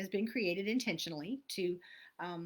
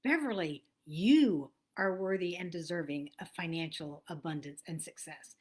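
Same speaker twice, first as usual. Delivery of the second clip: affirmation with own name; 4 semitones lower than usual. Shown as a demonstration. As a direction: speak it to yourself in the mirror. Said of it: "go a little deeper and say your name".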